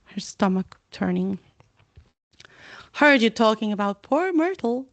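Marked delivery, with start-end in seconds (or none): 2.9-4.9 mischievous poltergeist, lightly higher; sly taunting ghost voice; Peeves voice. Acted. Peeves teasing Hermione, sly taunt.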